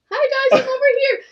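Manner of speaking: high, loud cheerful call. Retold or imitated. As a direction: call out across the yard. Sister calling from deck.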